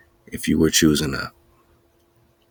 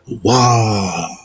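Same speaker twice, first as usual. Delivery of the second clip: dragon breath Wa; 4 semitones higher, 6 dB louder than usual. Shown as a demonstration. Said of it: "when a dragon breathes fire".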